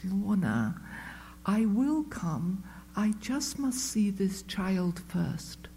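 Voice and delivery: calm her gently, hand on her arm; gentle. Retold or imitated. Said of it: "very gently puts her hand on my folded arms".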